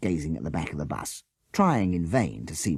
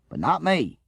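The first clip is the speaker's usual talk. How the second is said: proud; 10 semitones higher than usual. A narrator's reading. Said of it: "he finished proudly".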